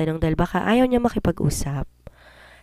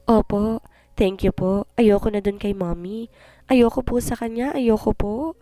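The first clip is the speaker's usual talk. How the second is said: put-on crying child; 5 semitones higher than usual. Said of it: "umiiyak niyang sabi sa akin".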